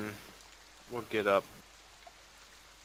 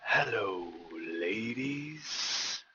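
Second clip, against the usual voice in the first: fake American accent; 3 dB quieter, much slower than usual. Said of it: "Turns on his American accent".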